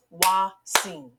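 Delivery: Wa-sing split into two clear beats; segmented syllables. Shown as a demonstration. Teacher segmenting a word for kids, two beats. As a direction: clap it out, Wa, sing. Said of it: "When I segment the word Watson, I hear two syllables".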